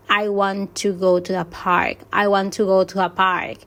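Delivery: WANT, GO and PARK stressed, small words lighter; stress on main words. Shown as a demonstration. Teacher showing students which words carry emphasis, stress on content words. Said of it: "los verbos principales".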